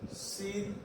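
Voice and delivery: "Circumflex" in softly separated syllables; quiet, piece-by-piece spelling-out. Shown as a demonstration. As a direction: dictate "Circumflex" with long gaps. Teacher splits term for copying.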